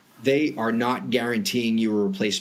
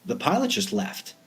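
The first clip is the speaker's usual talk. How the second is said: panicked client. Retold or imitated. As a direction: quote the client's alarmed call in a lifted voice. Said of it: "the client calls us and says".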